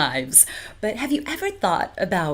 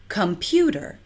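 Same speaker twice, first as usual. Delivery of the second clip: computer stressed on PU, com-PU-ter; stress on second syllable. Shown as a demonstration. Teacher showing natural stress on the middle syllable. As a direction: lean on the middle beat of computer.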